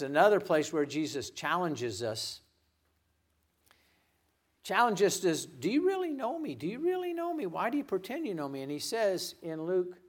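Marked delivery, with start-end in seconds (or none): 5.4-8.6 challenging question. Acted. Jesus challenging pretended followers.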